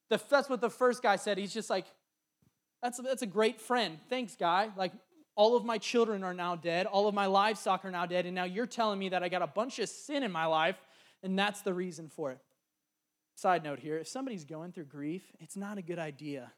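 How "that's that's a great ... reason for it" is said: hammed-up bitter reply to a tactless friend; sarcastic Job.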